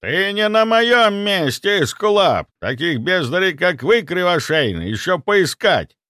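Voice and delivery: slow, high, loud scorn; contemptuous grandfather mocking the healer. A narrator's reading. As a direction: sneer down at the doctor. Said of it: "с презрением произнёс дед".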